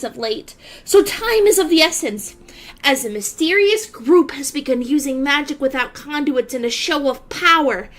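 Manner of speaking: lightly voiced character narration; a hint of a dramatic heroine; Akira voice. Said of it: "I was just doing Akira's voice".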